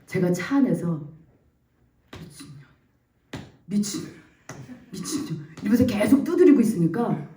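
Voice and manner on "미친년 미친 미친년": barely voiced, broken mutter; muttered self-cursing. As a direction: curse yourself under your breath. 차 안에서 자책하며 욕하고 두드림. (숨죽여 중얼대는 자책)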